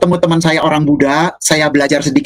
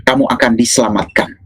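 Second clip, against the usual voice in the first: mysterious voice; 4 semitones lower than usual. Retold or imitated. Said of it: "ada suara menghampiri saya".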